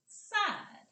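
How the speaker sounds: high, loud single-word call; big voice. Shown as a demonstration. Teacher demonstrating the word's second half, big voice. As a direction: pop it out in a big voice. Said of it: "use our big voice and say".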